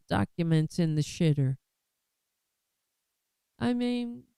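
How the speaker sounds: dripping mock sympathy; sarcastic. Real, not acted. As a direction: sarcastically pity them. Mocking Republicans as persecuted.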